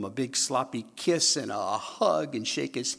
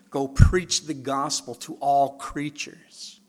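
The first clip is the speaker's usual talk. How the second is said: slow proclaiming; 2 semitones higher, 6 dB louder, slower than usual. Acted. Slow loud scripture.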